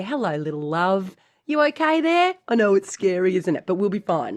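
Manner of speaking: put-on soothing like to a small child; gentle coaxing, voice lifting on the question; tender self-talk. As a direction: reassure a frightened little one. Tender talk to imposter syndrome.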